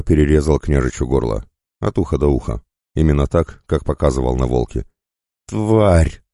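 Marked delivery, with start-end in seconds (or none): 5.5-6.2 high, drawn-out angry cry; enraged yell, kept in check. A narrator's reading. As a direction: hurl the insult. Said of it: "заорал Влаксан".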